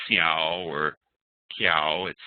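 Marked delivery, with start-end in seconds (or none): 0.1-0.7 "xiao" said see-ow, with an s sound; wrong soft C. Shown as a demonstration. Teacher showing learners what to avoid, an s sound for C. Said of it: "It's not". 1.6-2.1 "kiao" said key-ow, with a k sound; wrong hard C. Shown as a demonstration. Teacher showing learners what to avoid, a k sound for C. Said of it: "It's not".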